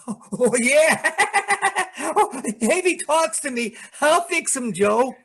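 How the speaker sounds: put-on giddy childlike bravado; giggling boast. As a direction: laughs then boasts. Danny laughs at the threat.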